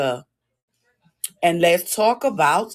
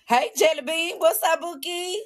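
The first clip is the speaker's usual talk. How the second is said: high sing-song pet voice; 10 semitones higher than usual. Real, not acted. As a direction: coo at the pet. Greeting a pet, baby talk.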